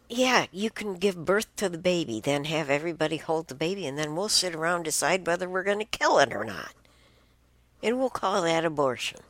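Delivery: high, fast, scornful imitation of them; mock their casual tone, rushing the words; mocking quote. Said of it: "they said".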